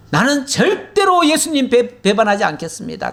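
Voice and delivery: high-pitched, insistent retold pledge; emphatic vow. Preacher voices a disciple vowing never to betray Jesus, emphatic.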